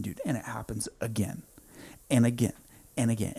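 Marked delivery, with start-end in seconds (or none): 0.0-1.4 hushed. Real, not acted. Recounting time loop, hushed aside.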